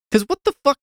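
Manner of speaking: real baffled outcry; incredulous outburst. Real, not acted. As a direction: explode in disbelief. Speaker outraged at Frankenstein's logic.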